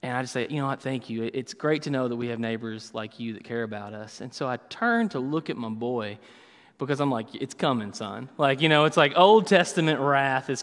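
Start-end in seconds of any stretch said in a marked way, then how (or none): 0.5-4.2 softer, tight, overly polite thanks; forced politeness. Retold or imitated. To the neighbor while hiding anger at his son, softer forced politeness. 7.3-8.3 much softer, low menacing warning; quiet threat. Retold or imitated. Dad to the boy he thinks is his, quiet menacing threat.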